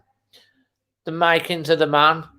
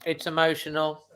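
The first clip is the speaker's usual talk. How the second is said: much softer; 10 dB quieter than usual. Real, not acted. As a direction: drop to a near-murmur, moved. Repeats it, then softer.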